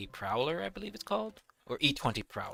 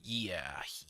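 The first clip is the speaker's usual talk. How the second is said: unvoiced whisper; 6 semitones lower, 10 dB quieter than usual. Real, not acted. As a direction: breathe it out. Whispered aside.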